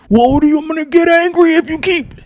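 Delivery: high-pitched mock threat; mock anger. Host acts out someone being yelled at, mock angry. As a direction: play at getting worked up, voice jumping high. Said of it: "Y-, yell at me".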